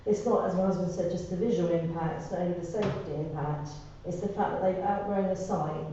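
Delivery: post-surgery throat voice; voice after throat surgery. Real, not acted. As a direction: speak through a healing throat after surgery. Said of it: "Excuse my voice, I've just had throat surgery".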